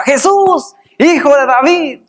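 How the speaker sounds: high-pitched calling out, easing at the end; acted cry. Preacher voicing blind Bartimeo calling to Jesus, acted cry. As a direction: call out for mercy, imitating a shout. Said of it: "Bartimeo dice que gritaba".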